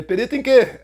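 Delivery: puzzled. Retold or imitated. Puzzled question to friends.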